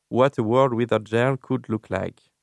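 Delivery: slow English with a French accent; anglais approximatif. Real, not acted. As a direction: read the English title slowly, French-accented. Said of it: "Désolé pour mon anglais". (anglais lent à l'accent français)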